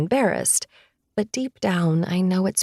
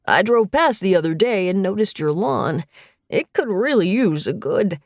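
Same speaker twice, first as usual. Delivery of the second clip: lightly voiced chatty grandpa; a hint of a fussing dad; old man voice; 3 dB louder than usual. Grandfather character voice.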